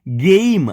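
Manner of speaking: ગેમ with a long ei glide. Shown as a demonstration. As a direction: stretch ગેમ as gei-m. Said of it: "આનો એનો ઉચ્ચાર એ તરીકે".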